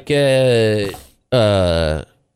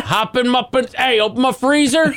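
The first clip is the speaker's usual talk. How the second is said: 1 mock redneck shout; 10 semitones higher than usual. Hick voice answering, shouting.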